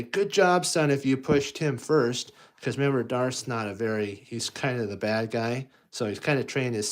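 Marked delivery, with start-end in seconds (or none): 0.0-2.3 high, louder praising dad; approving villain dad. Acted. Darth praising Luke for pushing first, high approving voice. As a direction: cheer on your son's bad behaviour. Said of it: "he probably would say".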